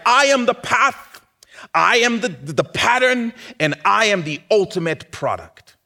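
loud, high, driving sermon voice; full-force preaching. Acted. Pastor proclaiming to the congregation, loud and fervent. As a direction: preach it out with rising fire.

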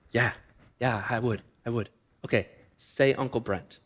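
put-on soft, small toddler voice; a two-year-old happily taking the brownie; toddler's eager yes. Nephew agreeing for a brownie, in a small soft voice.

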